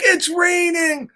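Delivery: high, laughing shout of joy; squealing it's raining with a laugh; joyful laugh. Acted. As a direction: burst out laughing with delight. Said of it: "Piggy's like".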